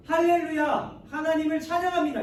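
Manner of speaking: high, loud cry of worship; shouted praise. Acted. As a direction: proclaim praise like a battle cry. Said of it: "이렇게 소리 지르는 거예요".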